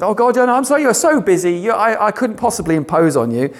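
mock a Christian too shy to ask; a hint of a fretful believer begging pardon; timid apologetic prayer. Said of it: "don't want to impose on God".

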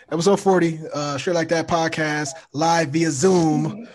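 muffled Zoom audio. Real, not acted. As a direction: sound muffled, like through a cloth. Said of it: "That's why I sound so muffled".

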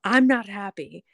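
slow, deadpan flat statement; blunt redhead's slow deadpan. Retold or imitated. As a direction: say it bluntly, no softening. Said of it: "she's this blunt redhead".

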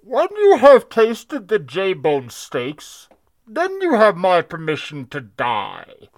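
very slow, looming villain voice; slow theatrical villain quote; villain impression. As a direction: stretch every word like a menacing movie villain. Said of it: "when you said he is the Bane".

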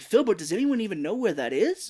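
high, loud, baffled question; imitating an exasperated complainer; mock incredulity. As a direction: exclaim it in overblown disbelief.

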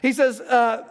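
talking through a real chuckle; words bubbling with laughter; amused, laughing aside. Real, not acted. Laughs at own joke.

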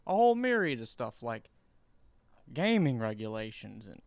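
mock a politician's earnest statement; Joe Biden. Politician dismissing gay marriage, high mocking impression. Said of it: "like, Joe Biden in two thousand six".

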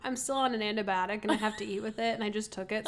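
talking while eating; words round a bite of food; mouth full. Real, not acted. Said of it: "so I'm sorry I'm eating".

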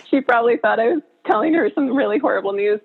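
slightly fast, choked up, laughing through tears; teary voice. Real, not acted. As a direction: tell it while tears come. Retelling tearful confession.

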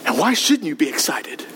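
hushed, breathy challenge to the congregation; whispered question. Real, not acted. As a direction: lean in and whisper it. Drops to a whisper mid-sermon.

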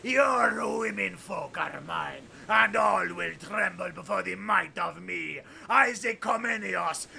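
villainous boast. Acted. Villain boasting at captor king.

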